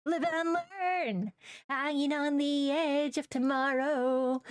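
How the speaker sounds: high, slow, dramatic edgy hero voice; edgy hedgy. Pretend. Streamer trying to look scary, hammed-up edgy voice. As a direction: ham up a brooding edgelord. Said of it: "what if I go edgy hedgy?".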